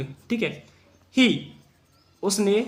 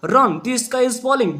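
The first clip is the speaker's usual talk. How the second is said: slow read-aloud; 4 semitones higher, much slower than usual. Shown as a demonstration. Teacher rereads the quote.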